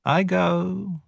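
high, soft jackal whine; quiet jackal. Acted. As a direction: slink off softly, high-voiced. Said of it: "said Tabaqui quietly".

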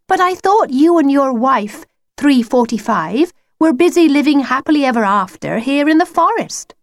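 put-on high, protesting girl's voice; young girl Lucy. Lucy questions the wolf about his wife, high girlish protest. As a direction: object in a high schoolgirl voice.

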